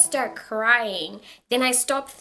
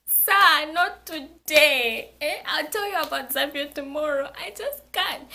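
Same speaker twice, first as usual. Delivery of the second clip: exasperated refusal; 5 semitones higher, 4 dB louder than usual. Retold or imitated. Panicking student to chatty bus driver, exasperated refusal. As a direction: fend him off, loud at first and pleading.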